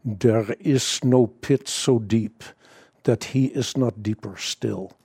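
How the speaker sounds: lightly imitated Dutch brogue, slow and measured; slow, understated Dutch-accented recitation; Corrie ten Boom. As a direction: quote it slowly with a hint of a Dutch accent. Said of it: "say this in her Dutch brogue".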